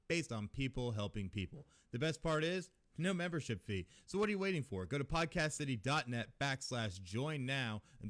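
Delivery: upbeat sponsor read; podcast ad read. Acted. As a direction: sell it like a radio spot. Reads a sponsor ad.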